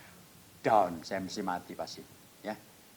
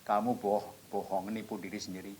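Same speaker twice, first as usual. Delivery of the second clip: suara batin; 3 semitones lower, 6 dB quieter than usual. Retold or imitated. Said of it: "Tapi ada suara lagi".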